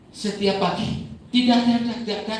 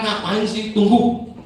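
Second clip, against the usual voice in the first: put-on annoyed child; 8 semitones higher, 9 dB louder, slower than usual. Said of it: "Papa ini lagi marah-marah".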